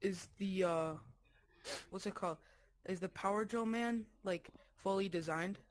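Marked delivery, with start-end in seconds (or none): 0.0-3.7 whisper. Real, not acted. Whispered mid-question.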